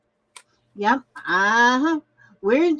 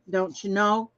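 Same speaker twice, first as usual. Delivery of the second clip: put-on lower, playful Minnesota accent; 4 semitones lower than usual. Former Minnesotan repeating the catchphrase, mock Minnesota accent. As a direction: slip lightly into a Minnesota accent. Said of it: "I lost that Minnesota accent".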